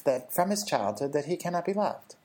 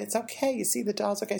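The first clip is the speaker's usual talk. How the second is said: put-on higher, sing-song grandma hushing a child; soothing grandmother; 7 semitones higher than usual. Grandmother hushing crying granddaughter, higher and sing-song. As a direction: brush off the upset brightly. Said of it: "She said".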